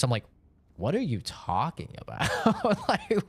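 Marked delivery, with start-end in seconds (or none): 0.8-2.3 laughing disbelief. Retold or imitated. Retelling an absurd accusation. 2.4-2.8 short high incredulous laugh; a real laugh that jumps up in pitch; high burst of laughter. Real, not acted. Streamer laughing at a viewer's absurd accusation, high burst of laughter.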